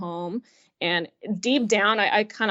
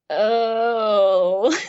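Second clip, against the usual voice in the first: learning mom is taking her for a virginity check, laughing oh; shocked laugh; 2 semitones higher, 7 dB louder than usual. Retold or imitated. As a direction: burst out laughing in disbelief.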